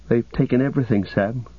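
a touch of anguish; despair. Acted. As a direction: let hopelessness creep lightly into the voice. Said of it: "despair overwhelmed him".

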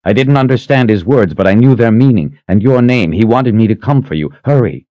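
breathless urgent plea; urgent and frightened. Acted. Frightened messenger urges haste.

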